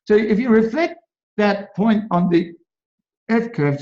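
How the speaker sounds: talking with something in mouth; words around something in the mouth; mouth full. Real, not acted. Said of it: "I've got something in my mouth".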